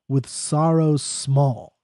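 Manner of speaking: slow, drawn-out phrase; poem reading. Acted. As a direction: linger on sorrows small. Rereads stanza slowly.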